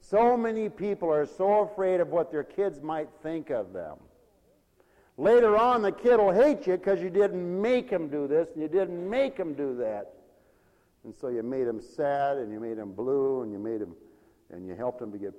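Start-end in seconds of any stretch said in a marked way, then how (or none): 5.2-10.1 louder preaching. Acted. Emphatic preaching.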